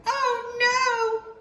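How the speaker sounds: high alarmed cry. Acted. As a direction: panic at the river. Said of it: "cried the gingerbread man".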